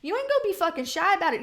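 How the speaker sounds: usual speaking voice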